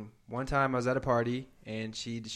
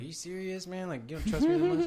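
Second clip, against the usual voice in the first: put-on exasperated boyfriend; 7 semitones higher than usual. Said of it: "I'd just be like".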